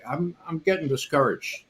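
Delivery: a hint of a deflated young student; imitating discouraged complaint. Student complaining to his teacher, mildly discouraged. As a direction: let it sag, a little sorry for yourself. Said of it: "I thought you said discouraged".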